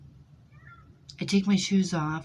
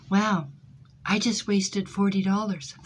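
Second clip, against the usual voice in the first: deadpan retort; 3 semitones higher than usual. Retold or imitated. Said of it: "And you know what I said to her?".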